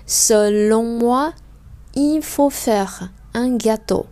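very slow, word by word; slow rereading. Shown as a demonstration. Teacher rereading the lesson sentences slowly. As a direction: read it slowly, chunk by chunk. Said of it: "Bây giờ mình sẽ thử đọc lại".

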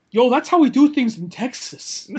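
A rapper. Retold or imitated. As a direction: put on a drawn-out Texas swagger. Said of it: "a rapper says".

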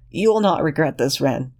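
put-on high, pleading young man's voice; desperate Lexington. Lexington grateful.

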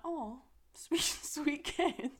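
put-on high sweet coo at a child. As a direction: coo it like to a cute kid. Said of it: "and I'm like".

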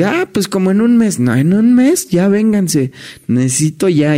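high, eager hurry-up voice; a touch of breathless urgency; mock urgent hurry. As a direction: play the boss rushing them over. Quoting the rushed hotel call.

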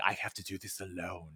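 low, soft, solemn Leo voice; a grave hush for Leo's line; imitating Leo. Leo going alone to face Gideon, quiet and solemn. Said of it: "and he's like".

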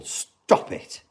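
voiceless, drawn-out hiss on the S; hissed scolding. Acted. Fan telling off the writers, in a hissed reprimand.

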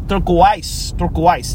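"Turquoise" said as "turk-wise"; odd pronunciation of turquoise. Shown as a demonstration. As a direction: rhyme the end of "Turquoise" with "wise". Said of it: "That's how you say it?".

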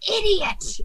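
high, drawn-out insult in character; high-pitched villain's exasperated cry; Crane. Acted. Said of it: "Crane goes".

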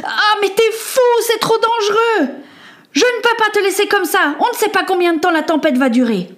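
high, alarmed pleading that speeds up; frightened protest. Acted. Injured girl begs her friend not to leave, high and alarmed. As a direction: beg him not to go.

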